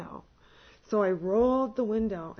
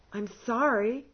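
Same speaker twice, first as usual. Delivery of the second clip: higher, much louder, baffled protest; exasperated plea; 8 semitones higher, 10 dB louder than usual. Retold or imitated. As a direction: throw up your hands, loudly confused. Pleading with residents, exasperated.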